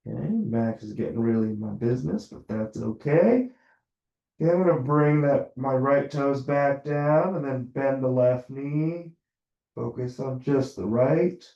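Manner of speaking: talking through a shirt over the mouth; muffled, mouth covered by fabric. Real, not acted. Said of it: "Sorry if my voice is muffled, my shirt's covering my mouth".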